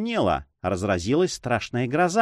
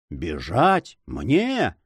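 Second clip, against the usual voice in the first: incredulous outrage, each word swooping up; indignant, disbelieving exclamation; burst of anger; 4 semitones lower, much slower than usual. A narrator's reading. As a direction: throw it back as two offended questions. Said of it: "вскричал лесник в порыве гнева".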